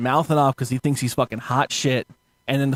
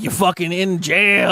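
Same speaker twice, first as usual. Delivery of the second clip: mock cop shout; 3 semitones higher, slower than usual. Quoting the cops.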